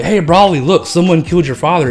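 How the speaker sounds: high, loud call to Broly; screaming for Broly. Retold or imitated. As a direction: shout across the battlefield to rile him up. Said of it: "screaming for Broly".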